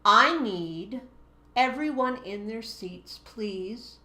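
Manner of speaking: calm firm classroom command; adult teacher taking charge. Shown as a demonstration. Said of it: "the adult, professional teacher voice".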